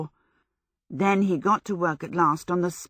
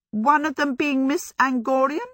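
pointed; 8 semitones higher than usual. Acted. Sophie's pointed question.

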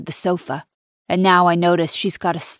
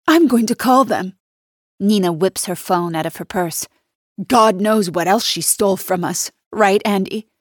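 loud threat; 2 semitones higher, 3 dB louder than usual. Acted. Nina threatening to call police.

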